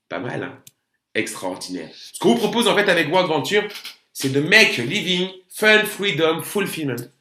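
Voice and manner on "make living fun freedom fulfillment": English words with a heavy French accent, slow on the first. Real, not acted. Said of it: "excusez-moi pour mon accent anglais qui n'est pas terrible".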